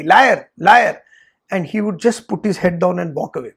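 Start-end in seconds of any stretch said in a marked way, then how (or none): 0.0-1.0 louder, sing-song "Liar, liar"; teacher taunting the student publicly, loud. Retold or imitated. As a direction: jeer it across the yard. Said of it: "loudly before everybody".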